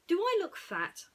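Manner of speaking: high, loud worried pig voice; Ham, anxious. Acted. Ham asking Woody if he looks fat, high and worried. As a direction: ask it shy and anxious. Ham's shy question.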